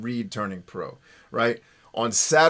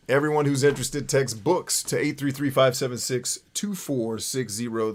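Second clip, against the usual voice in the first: smooth, measured radio DJ read; radio announcer voice. Shown as a demonstration. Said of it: "if I sound like a radio guy".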